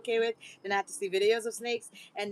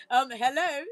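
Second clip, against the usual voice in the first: mock European-accented man's greeting; 3 semitones higher, 5 dB louder than usual. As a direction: imitate his European accent, playfully. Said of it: "He has the accent".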